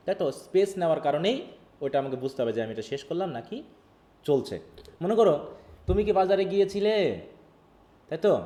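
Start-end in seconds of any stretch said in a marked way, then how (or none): 5.9-7.0 higher pitch held up through "গিয়েছিলে"; unfinished tone. Shown as a demonstration. Teacher shows talk still to come, "গিয়েছিলে" left hanging. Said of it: "কথা এখনও বাকি আছে".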